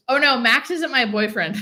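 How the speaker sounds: laughing it off, loud and amused. Real, not acted. Laughing to chat that Max isn't her boyfriend, amused. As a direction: blurt the denial through a laugh.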